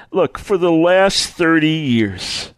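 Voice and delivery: slow, weighted confession with understated hurt; mildly broken. Acted. Troubled seeker confiding in a Bible reader, mildly broken. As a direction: say it slowly, as someone worn down. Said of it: "they're broken".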